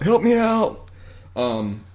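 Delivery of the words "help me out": high-pitched mock plea; yelling out. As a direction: call out as if stranded, hammed up. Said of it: "like, yelling out".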